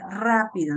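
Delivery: rápido with the A punched harder; stress on first syllable. Shown as a demonstration. Teacher showing students the tonic syllable, stress on RÁ in rápido. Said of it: "en la A de la palabra rápido hay mayor".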